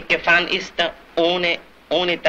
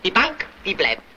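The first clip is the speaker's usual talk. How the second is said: higher-pitched, worked-up warning; emphatic urging; 5 semitones higher than usual. Acted. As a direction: press the point with rising alarm. Urging a man to bank savings. (eindringlich, aufgeregt warnend)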